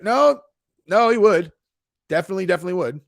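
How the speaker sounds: high, loud imitated protest; mock insistence. Streamer voicing others defending a fighter, insistent. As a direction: jump up high as a retold objection. Voices the reply to his dare.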